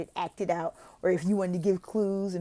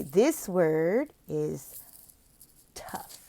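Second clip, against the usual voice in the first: gentle correction; 2 semitones lower, much slower than usual. Shown as a demonstration. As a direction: calmly model the tough word. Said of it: "then I say".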